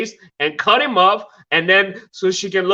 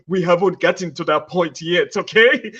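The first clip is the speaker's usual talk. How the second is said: put-on light African accent, playful; lightly put-on African accent; 3 semitones lower than usual. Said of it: "You want me to use my African accent?".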